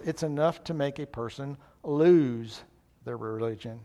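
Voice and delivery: a lightly voiced grumbling doubter; gloomy pessimist. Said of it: "where the pessimist says".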